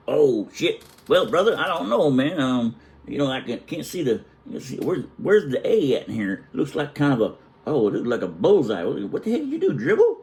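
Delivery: imitating an uncle messing with his rival, pitch climbing high; hammed-up teasing inspection, rising to a high jab; mock teasing. Uncle judging his brother's snow writing, teasing him hardcore. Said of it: "he's messing with him hardcore".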